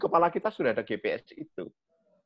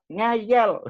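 high, loud scolding word; scolding parent; 7 semitones higher, 6 dB louder than usual. Retold or imitated. Parent scolding a child who keeps running. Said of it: "lalu kita bilang".

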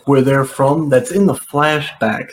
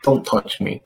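whispered rebuff; 6 dB quieter than usual. Retold or imitated. Flicking his hand off.

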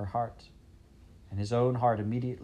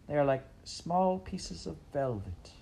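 princess voice; 6 semitones higher than usual. Acted.

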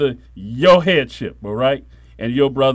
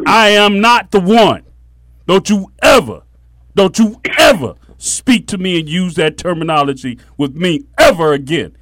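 shaking with anger; 5 dB louder than usual. Retold or imitated. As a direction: lay down the law. Retold confrontation with cousin.

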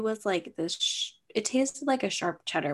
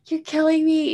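exasperated; 8 semitones higher, 4 dB louder than usual. Retold or imitated. Frustrated retort to dad.

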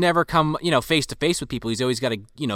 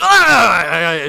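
loud imitated "Ah!"; quick cry of shaking someone off; mock yell; 6 dB louder than usual. Acted cry while shaking him off.

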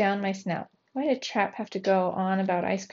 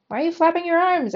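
much higher, loud incredulous shout; 9 semitones higher, 4 dB louder than usual. A narrator's reading. Geronimo yelling at his arm-flapping cousin, incredulous shout. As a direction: yell at him across the boat, baffled. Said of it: "I shouted at him".

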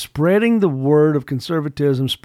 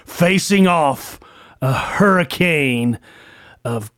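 movie trailer voice; 2 semitones higher, much slower than usual. Pretend. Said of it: "That's my best movie tone voice".

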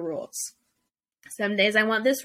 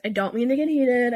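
a bit heated; 3 semitones higher, 4 dB louder than usual. Real, not acted. Vlogger apologising to her viewers, still heated and loud. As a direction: apologise while still fired up. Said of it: "I'm getting heated".

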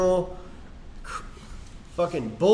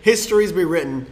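loud, gloating bro boast; frat bro; 5 semitones higher, 10 dB louder than usual. Acted. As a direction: crow about the win like a frat guy. Boasting over the chug.

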